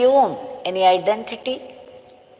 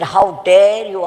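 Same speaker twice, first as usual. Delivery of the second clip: slow, louder angry retort; furious retort; 5 dB louder, slower than usual. Retold or imitated. The furious king answers the disciple, slow and loud. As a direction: drag out each word in fury. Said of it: "he became furious".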